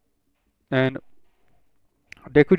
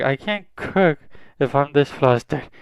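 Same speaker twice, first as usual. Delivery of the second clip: flustered; 3 semitones higher than usual. Acted. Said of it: "blushing now".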